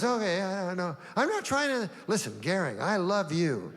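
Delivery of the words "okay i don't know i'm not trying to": high, plaintive dog voice. Retold or imitated. Hitler's dog answers Goering, high and plaintive. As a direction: protest like a hurt puppy. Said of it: "He goes".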